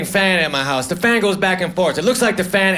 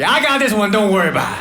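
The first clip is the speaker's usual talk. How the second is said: cocky; faster than usual. Acted. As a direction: brush it off with showy confidence. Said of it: "I get all cocky".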